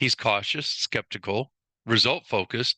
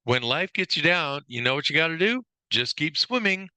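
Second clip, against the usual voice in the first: lightly acted upbeat quote, climbing higher; movie character quote; 5 semitones higher than usual. Trainer quoting a movie character's line to the class, lightly acted. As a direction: lift the pitch toward the final phrase. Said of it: "the line in the movie that I think".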